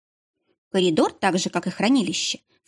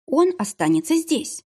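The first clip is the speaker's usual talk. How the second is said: firm; 9 semitones higher than usual. A narrator's reading. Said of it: "твёрдо сказала я".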